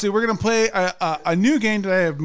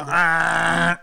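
drawn-out "ah" ring-in; demo buzzer noise. Shown as a demonstration. Host urging Jeff to ring in, demo buzzer. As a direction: show them how to buzz in. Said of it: "you gotta give me some".

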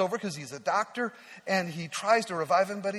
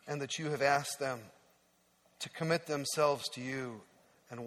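closing prayer. Acted. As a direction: pray over them gently and sincerely. Closing prayer over the youth.

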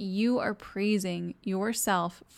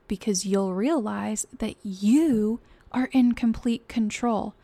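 louder, driving, slowing toward the end; louder motivational build; rousing pep talk; 6 dB louder than usual. Real, not acted. Motivational push to viewers.

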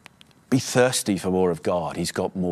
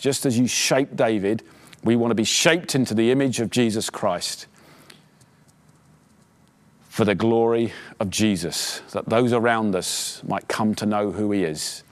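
prayer. Acted. Closing prayer over the church.

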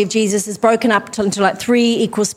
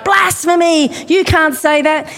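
outraged crowd; 4 semitones higher than usual. Retold or imitated. Synagogue listeners reacting to Jesus, mock outraged shout. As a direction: cry out as a shocked synagogue crowd. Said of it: "And they're like".

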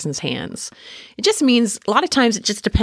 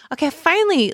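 mock relief; 12 semitones higher than usual. Acted relief after awkward small talk.

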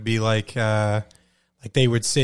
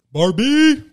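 excited cheer; 10 semitones higher, 4 dB louder than usual. Real, not acted. Calls out the Barbie movie.

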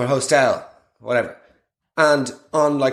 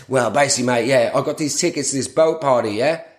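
imitating Chezza. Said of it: "here's the salesman now".

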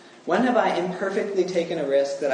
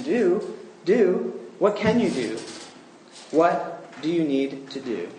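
a lightly raised, urgent Do, do; pleading preacher; 3 semitones higher, slower than usual. Retold or imitated. Proctor answering a despairing sinner, mildly urgent. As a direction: press the sinner, then slow on What do you need to do. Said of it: "I have said to him".

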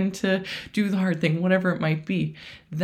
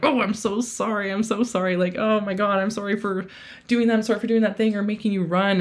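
lightly raised, fast flurry of apologies; over-apologetic; 4 semitones higher than usual. Retold or imitated. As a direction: gush out sorry after sorry like a nervous beginner. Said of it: "and I'm like".

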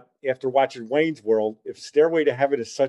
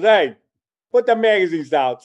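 retold shout; 6 semitones higher, 7 dB louder than usual. Store clerk scolding kids.

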